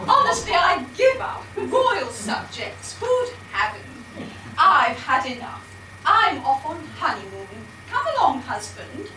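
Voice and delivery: shrill, camp panto dame voice; shrill camp pantomime dame. Acted. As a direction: flounce about as a camp dame. Pantomime dame ordering husband.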